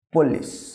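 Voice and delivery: "পুলিশ" said as "polis" with a short o; correct pronunciation. Shown as a demonstration. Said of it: "এর সঠিক উচ্চারণ হবে". ("পুলিশ" সঠিক উচ্চারণে, polis)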